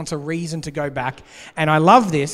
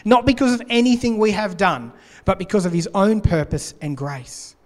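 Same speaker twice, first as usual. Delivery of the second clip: scripture reading; 2 semitones higher than usual. Acted. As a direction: read the verse out with weight. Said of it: "Two Timothy one nine says this".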